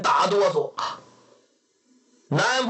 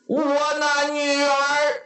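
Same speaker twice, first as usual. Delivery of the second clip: shocked father; 6 semitones higher than usual. A narrator's reading. Father asks after his daughter, shocked. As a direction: stretch it out in stunned dismay.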